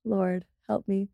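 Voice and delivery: slow, whispered plea; whispered mock despair; exasperated whisper. Real, not acted. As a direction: whisper it like a weary little prayer. Asked how she says about.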